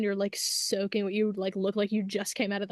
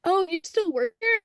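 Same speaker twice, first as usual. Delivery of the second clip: mock surprise; 8 semitones higher than usual. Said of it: "he was like".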